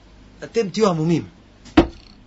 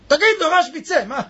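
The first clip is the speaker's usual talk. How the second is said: calling out; 8 semitones higher than usual. Retold or imitated. Elijah calls out to Rashbi.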